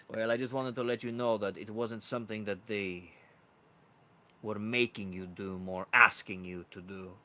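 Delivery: lightly voiced rooster, toned down; rooster herald. Rooster clarifying the summons to guard, toned-down herald. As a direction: explain it confidingly in the character voice.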